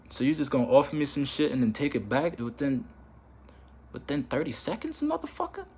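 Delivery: rising retold outrage, "motherfucker" spiking high; imitating a snapped comeback; mock barking. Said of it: "I just start barking on you too in my head".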